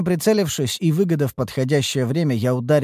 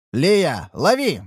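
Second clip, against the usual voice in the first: calling out; 5 semitones higher, much slower than usual. Acted. Narrator calls out throwing shard.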